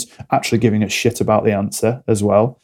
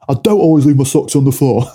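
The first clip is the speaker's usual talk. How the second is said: higher, louder indignant denial; defensive reply; 4 semitones higher, 4 dB louder than usual. Retold or imitated. Partner denying the socks charge, indignant and louder. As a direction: push back, offended. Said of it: "But couples do this now".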